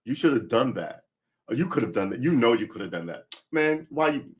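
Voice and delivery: acted-out tough pep talk, pitch jumping; mock-scold yourself, leaning in harder as it goes; gruff self-scolding. Man acting out how he pushes himself, gruff self-scolding. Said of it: "I'm gruff with myself in a positive way".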